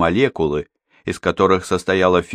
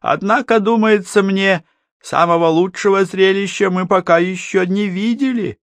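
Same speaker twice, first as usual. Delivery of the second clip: gloating villain; 13 semitones higher than usual. Acted. Ramer gloating.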